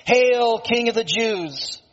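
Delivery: high, drawn-out mock acclamation. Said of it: "mocking him".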